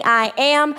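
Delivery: "I am" stressed from the heart; emphasized I am. Shown as a demonstration. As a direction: lean on "I am". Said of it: "you hear me emphasize".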